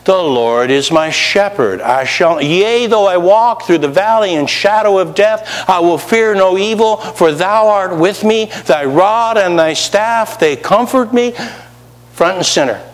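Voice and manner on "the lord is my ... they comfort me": recited psalm. Retold or imitated. Preacher reciting the psalm said at funerals, building higher. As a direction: say it like mourners at a graveside. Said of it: "Guess what they said at each one of the funerals?".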